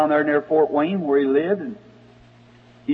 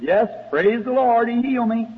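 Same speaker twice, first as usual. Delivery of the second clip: joyful; 6 semitones higher than usual. Retold or imitated.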